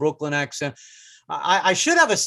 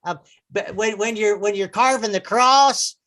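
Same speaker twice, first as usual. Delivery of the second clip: radio program announcer; 4 semitones higher than usual. Acted. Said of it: "some interesting programs about Jesus".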